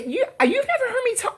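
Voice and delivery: high-pitched, laughing disbelief; incredulous retort. Retold or imitated. Retelling her reply to her ex-husband, incredulous. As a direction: replay being floored by the question.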